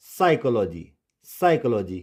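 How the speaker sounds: साइकोलॉजी starting on S; silent P. Shown as a demonstration. Teacher models the example twice, silent P. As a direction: say साइकोलॉजी as sai-ko-lo-ji, falling. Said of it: "पी silent होगा".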